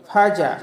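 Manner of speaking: "ফাজা" stopped on a plain a; ain turned into hamza. Shown as a demonstration. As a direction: say "ফাজা" with no throat sound at the end. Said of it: "এটা আমাদের ভুল হবে". ("ফাজা"-য় আইনের বদলে হামজা)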